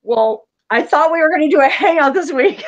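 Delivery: high, loud, laughing imitation of a friend; imitating Alex, laughing. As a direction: toss off his teasing complaint with a laugh. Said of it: "And even Alex said".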